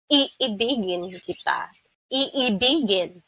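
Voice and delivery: "Iibigin" with long ee vowels; Filipino I as E. Shown as a demonstration. Teacher showing Filipino vowels, I said as ee. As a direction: say "Iibigin" with each I as a pure ee. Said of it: "we pronounce the vowel letter I with E".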